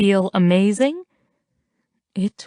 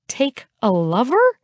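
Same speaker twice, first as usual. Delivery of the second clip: shocked disbelief; 5 semitones higher than usual. Acted. Nearly spits out the bubbly.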